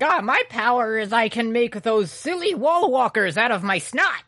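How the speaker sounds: silly hero voice. Retold or imitated. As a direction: play a dopey superhero bragging. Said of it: "He's like".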